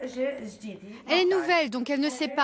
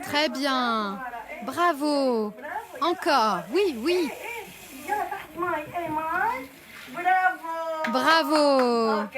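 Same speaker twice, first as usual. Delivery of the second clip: encouraging; 3 semitones higher, much slower than usual. Real, not acted. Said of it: "comme à un enfant qu'on encourage".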